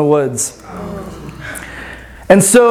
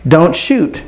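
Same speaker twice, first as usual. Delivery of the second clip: calm voice; 3 semitones lower than usual. Retold or imitated. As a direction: say it simply, as a calm command. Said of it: "this, like, very calm voice".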